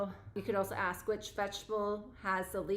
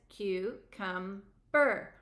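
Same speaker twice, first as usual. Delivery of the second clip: very slow, one beat per syllable; counting syllables slowly; much slower than usual. Shown as a demonstration. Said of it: "Count it".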